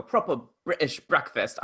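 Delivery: light, bad British accent. Shown as a demonstration. Teasing co-host's accent slip, lightly British accent. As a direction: put on a proper British accent. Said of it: "You sound a little bit like".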